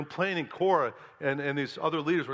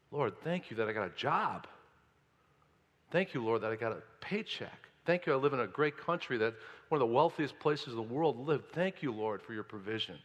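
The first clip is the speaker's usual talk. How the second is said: softer, humble thank-you prayer; grateful prayer; 3 semitones lower, 4 dB quieter than usual. Pretend. Preacher voices a grateful worker praying, soft and sincere. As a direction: pray quietly with gratitude. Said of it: "attitude of thanksgiving".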